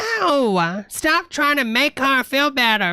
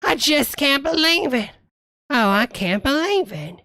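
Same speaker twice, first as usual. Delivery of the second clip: mock overacting; 4 semitones higher than usual. Mimics the overacting line.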